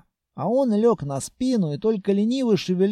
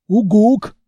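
monster hoot; 3 semitones higher, 9 dB louder than usual. Acted. Senya the monster hooting loudly to get attention.

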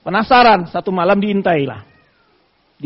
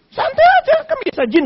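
a high, breezy jinn saying take it easy; relaxed jinn voice. Retold or imitated. Jinn greets Ubay bin Ka'ab calmly, high and casual. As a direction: play the jinn as casual and unbothered.

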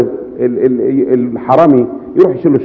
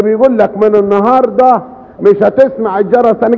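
repeating to a deaf man; 8 semitones higher than usual. Retold or imitated. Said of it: "علي حسك مش سامع".

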